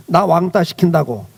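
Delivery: ordinary talk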